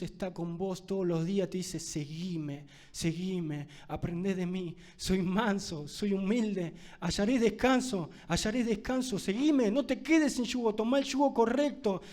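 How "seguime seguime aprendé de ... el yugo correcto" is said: building call. Acted. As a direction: start as a gentle invitation and swell into a plea. Preacher voicing Jesus inviting, building.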